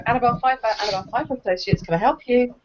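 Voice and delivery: lightly done polished receptionist answer; a hint of a posh business voice for the phone. Receptionist answering an unknown caller, lightly posh phone voice. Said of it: "I put on a sort of voice like that".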